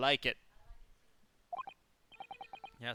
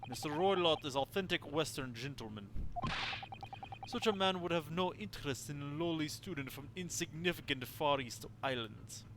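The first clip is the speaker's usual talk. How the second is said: put-on haughty Russian sailor accent; proud Russian seaman, slowing at the end. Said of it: "sorry to literally anybody who actually has a Russian accent".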